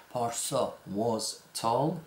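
پارسا was tall slowly, rising end; slow model sentence. Shown as a demonstration. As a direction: read the positive slowly. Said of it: "was not".

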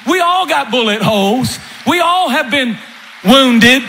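barking captain. Retold or imitated. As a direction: snap the orders like a captain under fire.

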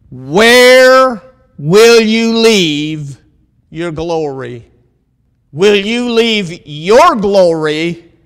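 drawn-out, ringing preacher's question; loud opening, slow deliberate sermon delivery; emphatic preaching. Real, not acted. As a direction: preach it, stretching the key words long. Preacher poses question with full force.

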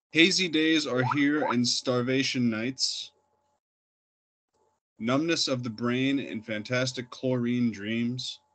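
declaimed verse with deliberate pauses between lines; poetry reading. Acted. Poet reading of the liquor store supreme to an audience, declaimed recital. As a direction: recite it in measured lines, leaning on the openings. Reads own poem aloud.

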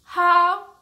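the animals all horrified, drawn out; horrified chorus. Acted. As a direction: stretch it out in dramatic horror. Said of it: "everyone said".

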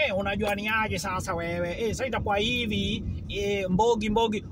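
lightly voiced Nairobi sheng slang, street style; a mild imitation of a Kayole youth in sheng; Kayole sheng accent. Speaker imitates someone from Kayole on the phone, light Nairobi sheng accent. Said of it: "ukienda kama na huko Kayole".

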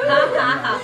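mock laugh at a failed joke; sarcastic fake laugh. Host answers co-host's unfunny joke, sarcastic fake laugh. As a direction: laugh on purpose, unamused. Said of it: "मुझे तो हंसी नहीं आई".

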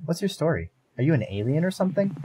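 curious creature. Acted. Creature voiced in story.

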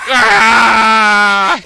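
long loud drawn-out scream; falling scream. Real, not acted. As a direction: hold one long terrified scream. Monster attack, long scream. (길게 내지르는 비명)

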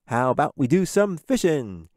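loud, upbeat dad's invitation; playful, rallying proposal with a wink; winking suggestion. A narrator's reading. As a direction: pitch it up, hearty and eager. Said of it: "with a wink".

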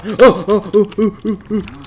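high, loud rapid oh-oh-oh; excited oh-oh. Real, not acted. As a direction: panic rising in quick yelps. Panic in game.

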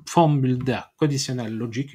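English words with a real French accent; mauvais accent anglais. Real, not acted. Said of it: "accent anglais catastrophique". (anglais prononcé avec un fort accent français)

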